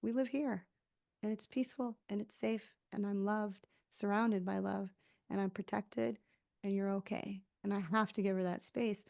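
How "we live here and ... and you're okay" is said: softer, soothing reassurance; gently calm a scared child; reassuring self-talk. Retold or imitated. Adult self soothing her inner child, softer and reassuring. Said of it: "to calm her down and be like".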